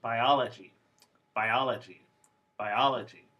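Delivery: "biology" repeated with a clear eye in the first syllable; model word. Shown as a demonstration. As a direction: say "biology" carefully three times. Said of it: "for example".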